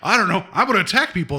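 lightly voiced, dazed extra; a touch of a clueless extra; mock zombie extra. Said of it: "it's like".

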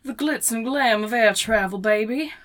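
mock transatlantic accent, chewing; old Hollywood transatlantic accent, teasing. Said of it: "in a mocking transatlantic accent".

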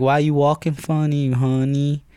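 acted-out salon busybody; hairdresser's voice. Voices hairdressers questioning his walk.

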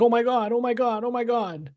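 mock panic. Host mimicking interns freaking out over the signed letter, mock panic. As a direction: imitate panicked interns in a high, thin-volume voice. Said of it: "now they're all freaking out".

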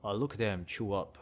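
badly faked British accent; horrible British accent. Vlogger mocking an Animal Planet background voice, hammy British accent. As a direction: attempt a British nature-documentary narrator, poorly. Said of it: "that's horrible British accent".

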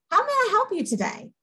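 a sunny, high-pitched offer of help; eager helper. Pretend. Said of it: "our whole attitude is".

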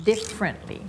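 "Differently" with a high first syllable, falling; stress on DIFF. Shown as a demonstration. Teacher repeating the model, "Differently" stressed high on "diff". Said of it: "stress ที่ diff".

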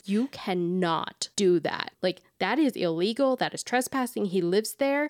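stern scolding mom voice. Retold or imitated. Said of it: "my mom voice".

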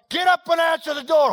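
loud, high mock command; hammed-up household shout; acted bossy order. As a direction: play an exasperated order across the house. Acted household quarrel over door.

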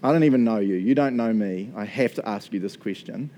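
low, doubting challenge; retold confrontation, kept low and measured; skeptical. Skeptic questioning the visiting prophet, retold in a skeptical tone. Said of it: "being all skeptical".

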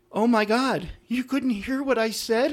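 high, slow, hurt squeak of the maid of honor; mock upset bride's friend. Maid of honor asking the guest in hurt disbelief, high mock wail. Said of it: "She was very emotional".

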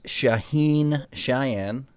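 name drawled slowly in a Texas accent; a slow Texas twang on the Persian name. Shown as a demonstration. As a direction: stretch the name out Texas style. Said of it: "I always say that with the Texas accent".

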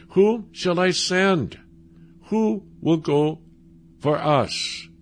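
called out slowly, God's question ringing; slow booming call. Acted. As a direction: draw out each word like a summons from heaven. God's call voiced slowly, preaching.

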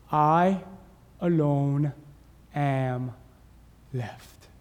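low, halting lament, fading away; one word at a time, sinking into near silence; acted despair. Acts out Elijah's despairing answer.

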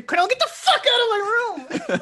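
very high, whiny preteen complaint; shrill kid voice laughing as it whines; squeaky kid voice. Retold or imitated. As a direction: kid begging his friends to get out of his room, squeaky. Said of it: "And then he deepens his voice again".

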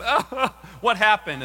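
a slow, gloating giggle; sibling pretending innocence; mock innocent laugh.

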